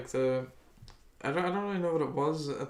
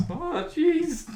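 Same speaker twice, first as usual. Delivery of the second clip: very high, loud cartoon kid; high-pitched Morty voice; Morty impression; 6 dB louder than usual. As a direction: jump way up into a squeaky cartoon voice. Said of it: "the thing he says".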